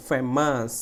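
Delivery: ফেমাস with a firm "fe"; stressed first syllable. Shown as a demonstration. Teacher showing students the stress, firm "fe" in ফেমাস. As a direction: press on the start of ফেমাস. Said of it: "জোরে উচ্চারণ".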